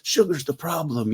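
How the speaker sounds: a hint of a pushy passenger; retold customer lecture. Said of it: "he goes".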